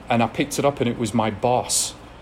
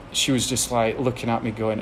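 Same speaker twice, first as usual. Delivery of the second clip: usual speaking voice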